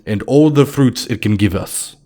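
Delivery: a Russian stranger raising his glass; heavy Russian accent. Acted. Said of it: "he said in a very heavy Russian accent".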